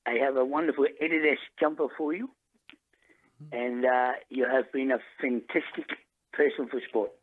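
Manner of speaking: a lightly put-on New Zealand accent. Prank caller posing as a Kiwi coach to the host, mild New Zealand accent. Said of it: "I've been trying to practice New Zealand accent".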